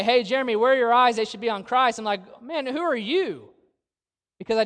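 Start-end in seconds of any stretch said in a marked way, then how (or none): 0.0-2.0 louder, slightly raised voice, confronting; blunt challenge. Retold or imitated. Church friend confronting the preacher about his focus, blunt challenge. 2.4-3.5 higher-pitched, drawn-out mock indignation; indignant retort. Preacher retorting to a friend who challenged him, indignant. Bristling reply to being challenged.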